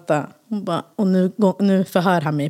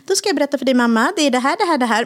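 put-on child explaining; 6 semitones higher, faster than usual. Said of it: "kommer de kanske inte bara".

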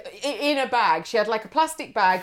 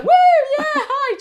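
high, excited hi; bubbly tipsy hello; giddy drunk greeting; 8 dB louder than usual. Retold or imitated. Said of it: "I was like".

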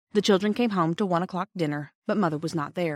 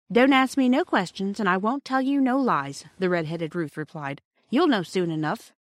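servant's retort; 3 semitones higher, 3 dB louder than usual. Acted. Maid Ruth voiced, cheeky.

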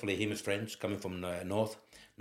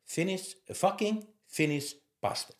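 mock shout; 10 semitones higher than usual. Manager raging at his new Finnish player, mock shout. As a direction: bellow "Finnish" and "fucking Finnish bastard" like a raging manager. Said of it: "He was shouting like mad".

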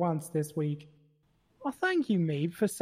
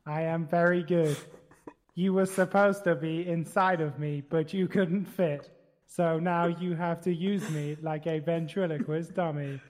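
Stephen Hawking voice. Acted. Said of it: "why do you sound a little bit like Stephen Hawking".

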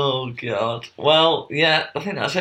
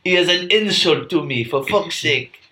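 Napoleon voice; 5 semitones higher than usual. Pretend. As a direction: play an offended Napoleon, half-hearted.

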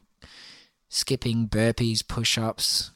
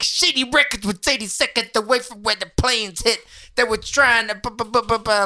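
high, mock rapper stammer; hammed-up stuttering rapper impression; mocking a rapper; 9 semitones higher than usual. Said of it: "to be like".

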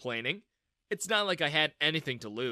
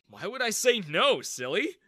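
smiling; 6 semitones higher, 6 dB louder than usual. A narrator's reading. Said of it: "I smiled".

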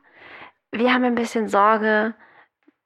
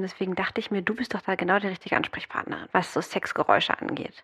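hushed whisper; 5 dB quieter than usual. Real, not acted. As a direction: drop into a secretive whisper. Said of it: "Ich flüstere". (flüsternd)

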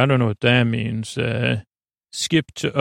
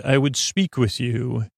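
Worf impression. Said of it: "I like how he says this".

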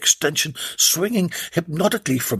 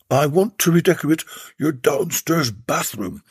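seductive purr. Acted. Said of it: "he purred seductively".

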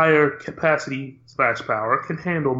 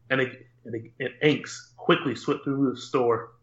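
nature documentary. Acted. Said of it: "with that over-dramatization".

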